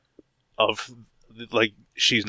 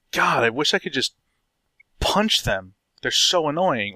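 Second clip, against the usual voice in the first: exasperated listener; 4 semitones higher than usual. Acted. Acted quote of exasperated listener.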